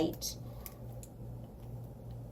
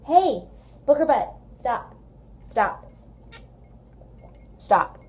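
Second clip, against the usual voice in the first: calling out; 5 semitones higher, 3 dB louder than usual. Real, not acted. Scolding the pet.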